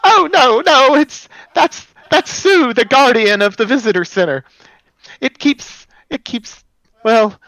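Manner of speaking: very high, loud and cracking, an eager stone guide; high cracking golem greeter. Acted. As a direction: squeak it out high and loud like a crystal creature welcoming guests.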